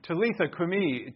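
Talitha, kumi in Aramaic; Aramaic words. Shown as a demonstration. Pastor teaching the Aramaic words to the congregation. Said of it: "Talitha is little girl".

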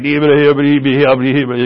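mock Irish brogue run into nonsense syllables; Irish brogue gibberish. Irish uncle speaking to visiting friends, unintelligible mock brogue. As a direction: imitate an incomprehensible Irish brogue. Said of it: "both had a brogue".

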